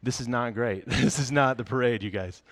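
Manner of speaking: lightly voiced grown-up, back down in pitch; mock sober correction of excited kids; deadpan worried adult. Adults correcting kids who mistake fire trucks for parade, mock sober. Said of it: "every adult is like".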